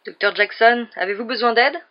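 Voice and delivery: loud call from outside, rising. A narrator's reading. Guard outside to the doctor, calling loudly. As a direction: call through the door to the doctor.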